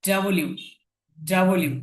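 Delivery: ডাব্লিউ said in full as "da-bo-liu"; correct W pronunciation. Shown as a demonstration. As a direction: sound out ডাব্লিউ as "double-you", keeping the middle vowel. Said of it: "এটা ডাবল ইউ".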